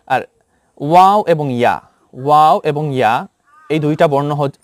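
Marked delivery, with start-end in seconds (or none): 0.8-3.1 ওয়াও and ইয়া said light and soft; soft letters. Shown as a demonstration. Teacher to students, showing the soft letters gently. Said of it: "নরম হবে".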